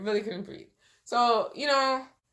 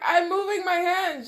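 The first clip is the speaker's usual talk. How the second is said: insisting; 8 semitones higher than usual. Retold or imitated. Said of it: "I'm like".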